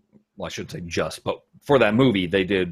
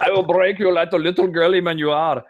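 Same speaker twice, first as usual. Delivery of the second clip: barbarian; 7 semitones higher, 5 dB louder than usual. Pretend. Mock threat, answering the other's barbarian.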